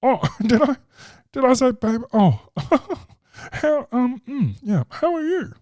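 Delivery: an awkward comic laughing off a mistake; high nervous giggle. Retold or imitated. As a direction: cover the slip with a nervous laugh. Weird comic covering mistake.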